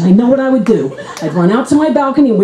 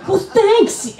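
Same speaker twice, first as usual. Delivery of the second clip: sarcastic thanks; 10 semitones higher than usual. Acted. Sarcastic reply to rival.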